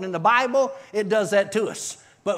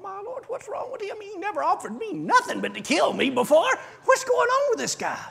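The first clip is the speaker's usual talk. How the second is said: astonished outburst; 13 semitones higher than usual. Retold or imitated. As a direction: cry out in amazement. Astonished inner thought.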